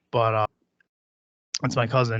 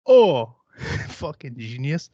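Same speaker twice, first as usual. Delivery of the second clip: sarcastic; 2 semitones higher, 4 dB louder, much slower than usual. Real, not acted. Sarcastic remark on rival.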